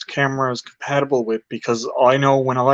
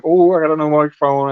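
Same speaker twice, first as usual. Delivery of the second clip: mildly excited self-quote, a bit louder; retold excitement; 5 dB louder than usual. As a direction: re-enact getting all excited, louder. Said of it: "I got all excited".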